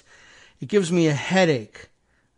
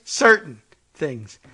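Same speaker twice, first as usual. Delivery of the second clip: evasive Trump; 5 dB louder, slower than usual. Retold or imitated. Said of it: "Trump dodging".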